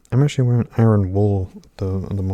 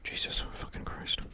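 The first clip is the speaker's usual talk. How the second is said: whispered swearing to oneself; barely audible, real exasperated whisper; muttered curse; 16 dB quieter than usual. Real, not acted. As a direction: curse under your breath after a mishap. Mutters to himself after mishap.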